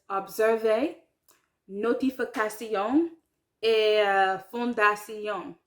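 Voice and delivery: "observer" and "notification" said the French way, every syllable sounded; French pronunciation. Shown as a demonstration. Learner showing French words that look English, French pronunciation. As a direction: give "fondation" a French ending, each syllable clear. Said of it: "not pronounced like English words".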